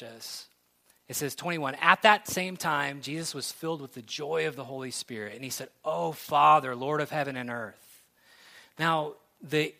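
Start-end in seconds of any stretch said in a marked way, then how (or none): 1.8-8.0 triumphant joy. Shown as a demonstration. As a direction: read it as a joyful cry of triumph. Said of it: "it's very clear that this is a tone of triumph and a".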